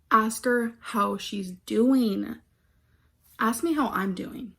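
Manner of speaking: slow, drawn-out "doing", then a pointed "Ask me"; emphatic poem reading. Shown as a demonstration. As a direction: stretch "doing" and pause before "Ask me". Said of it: "I needed to put emphasis on some of it".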